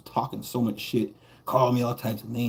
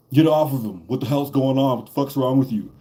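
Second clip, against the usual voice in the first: louder, commanding bark from a cop; cop yelling; 2 semitones higher, 4 dB louder than usual. Retold or imitated. Cop pulling him off the bully, shouting commands. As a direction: order him off the guy.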